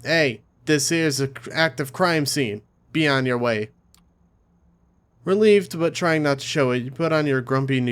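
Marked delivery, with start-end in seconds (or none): 0.0-3.7 Brooklyn cop barking, slow and heavy; a slow, heavy Brooklyn cop waving you off; thick Brooklyn accent. Acted. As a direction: Brooklyn accent, cop shooing a stranger away. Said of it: "yells in a thick Brooklyn accent".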